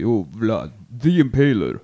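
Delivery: slow, drawn-out ring introduction; wrestling announcer. Pretend. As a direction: announce a wrestler's entrance, stretching the name. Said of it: "that's my wrestling name when I come walking down".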